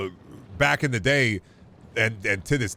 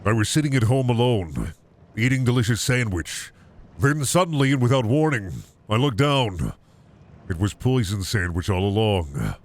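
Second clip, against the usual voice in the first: narrator voice. Shown as a demonstration. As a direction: tell it like a movie trailer narrator. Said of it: "full narrator voice for that".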